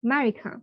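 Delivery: America with no first A, said 'merica'; America without the first sound; silent first A. Shown as a demonstration. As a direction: drop the opening vowel of America. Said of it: "এটা একদম silent চলে যাবে".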